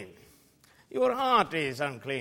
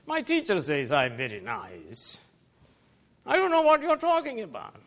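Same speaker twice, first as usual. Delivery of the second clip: a hint of a smug sinner, sing-song and dismissive; mock self-righteous sinner; 3 semitones higher, faster than usual. Preacher mocking a self-righteous churchgoer, lightly voiced smug denial. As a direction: play the proud sinner who denies his filth.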